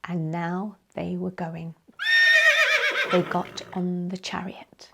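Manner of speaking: whispered, sombre; hushed narration. A narrator's reading. Narrator telling children of the sad departure, whispered. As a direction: hush it as they leave.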